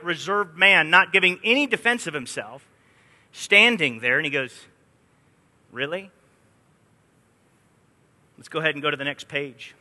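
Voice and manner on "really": sarcastic. Retold or imitated. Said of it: "is sarcasm".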